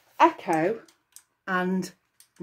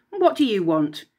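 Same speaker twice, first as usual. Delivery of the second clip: rude. Acted. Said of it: "he asked rather rudely".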